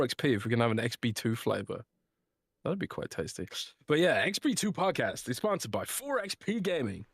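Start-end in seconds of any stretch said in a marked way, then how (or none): 4.2-7.0 lilting, emphatic sponsor read. Acted. Podcast host reading the sponsor's drink ad, emphatic ad read. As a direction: sell it with swooping stress on key words.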